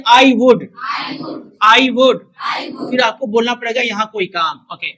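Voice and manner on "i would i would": loud model phrase for the class; loud drill phrase. Shown as a demonstration. Teacher calls out the phrase for students, loud. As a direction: punch it out loud for repetition. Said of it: "फिर कहिए".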